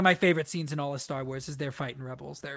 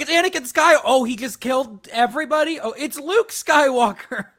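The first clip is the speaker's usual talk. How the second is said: mock excited fans; 6 semitones higher, 6 dB louder than usual. Mocking fans hailing Chosen One.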